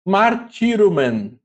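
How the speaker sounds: Martirumen said slowly, every syllable spelled out: mar-ti-ru-men; slow careful repeat. Shown as a demonstration. Teacher repeating a Greek word for students, slowly and clearly. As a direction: let the class hear each part of Martirumen. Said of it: "Outro exemplo aqui".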